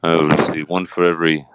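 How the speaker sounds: a low, laid-back Johnny Depp answering; Johnny Depp impression. Host interviews Johnny Depp on his case, lightly voiced low. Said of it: "Johnny Depp".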